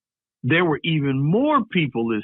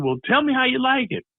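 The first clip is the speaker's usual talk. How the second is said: high, bright coaxing grown-up; director voice; 10 semitones higher, faster than usual. Retold or imitated. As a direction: coax a kid on camera.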